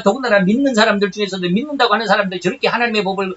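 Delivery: lightly acted protest to God; mildly exasperated appeal, lifting at the end; pleading complaint. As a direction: argue your case to God, question after question. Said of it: "하나님 앞에 막 하소연합니다".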